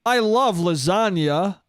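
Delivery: slow mock cartoon-cat line in an actor's voice; Chris Pratt as Garfield. Actor miscast as a cartoon cat, slow mocking impression. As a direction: say it slowly, lightly parodying generic voice acting. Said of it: "Now he's fucking Garfield".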